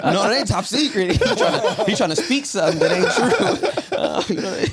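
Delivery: laughing it off, voice jumping high. Real, not acted. Laughing off his friend's teasing about another baby. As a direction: giggle through the words, half protesting.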